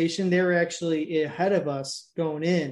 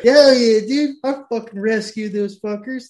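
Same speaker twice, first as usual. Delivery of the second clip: mock brag; 4 semitones higher, 7 dB louder than usual. Mocking a bragging rescuer.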